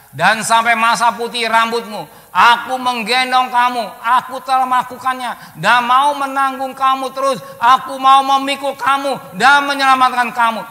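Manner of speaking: loud, slow, high proclaimed scripture; preaching at full force. Acted. Preacher booming the verse to the congregation. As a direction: thunder the verse out to the church.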